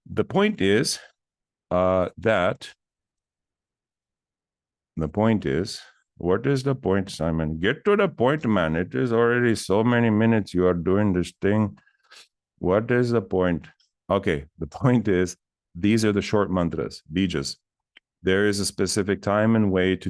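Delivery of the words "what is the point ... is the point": impatient listener. Pretend.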